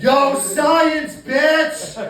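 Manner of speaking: loud, high yo-yelling slacker; Jesse Pinkman impression. Breaking Bad kid yelling at his teacher, loud and high. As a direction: yell it like a wired young dealer. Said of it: "I can do the kid from Breaking Bad".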